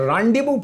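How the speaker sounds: rendezvous as "raandevoo", ending on "voo"; French pronunciation. Shown as a demonstration. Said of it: "इसका pronunciation". (rendezvous का सही उच्चारण "रांदेवू")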